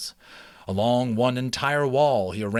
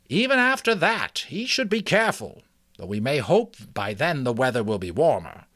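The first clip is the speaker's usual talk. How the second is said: put-on higher, kindly old mouse; 3 semitones higher, 4 dB louder than usual. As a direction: speak as a wise old mouse. Ages speaks.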